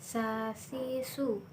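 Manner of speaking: "sa, si, su" with tongue tip at the upper teeth, breath flowing gently; soft breath-released s. Shown as a demonstration. Teacher demonstrating the letter Sa, soft flowing breath. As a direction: let soft air flow through "sa, si, su". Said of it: "suara dengan nafas dengan lembut".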